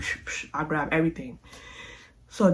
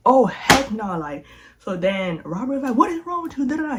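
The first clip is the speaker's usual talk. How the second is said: mad; 6 semitones higher than usual. Retold or imitated. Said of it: "This is when Robert got mad".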